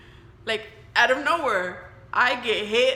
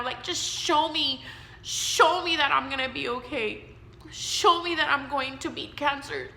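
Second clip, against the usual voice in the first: pleading prayer; 3 semitones higher than usual. Retold or imitated. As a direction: beg God for an answer. Retold tearful prayer to God.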